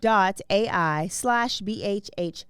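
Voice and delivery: slowly spelling out the promo code; slow spelled code. Shown as a demonstration. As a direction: spell it out clearly for listeners.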